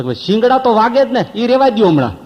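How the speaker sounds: high, loud wincing plea; high, loud begging through pain; pained pleading. Retold or imitated. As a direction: beg him to skip it, hurting. Man in pain begging to stop.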